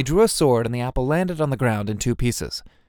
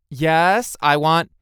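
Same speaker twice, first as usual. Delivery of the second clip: loud, eager yes, cut short; 5 semitones higher, 6 dB louder, much slower than usual. A narrator's reading. Lulu wanting to pet the kitten, eager. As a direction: jump at the offer at full volume.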